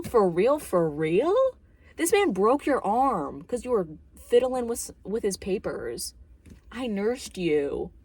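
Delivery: put-on loud, indignant rant at the kid; mock outrage. As Wendy yelling at Danny, loud and indignant. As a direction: pretend to tell Danny off. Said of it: "I'd be like".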